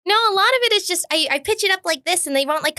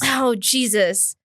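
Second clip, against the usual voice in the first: character voice; 4 semitones lower, much slower than usual. Pretend. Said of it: "Give me a voice".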